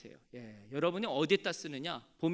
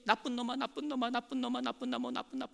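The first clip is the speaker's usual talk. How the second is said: echo; 6 semitones higher than usual. Retold or imitated. The mountain echoes the curse back, fading. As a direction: let it die away like a mountain echo. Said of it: "메아리가 막 울리는 거예요".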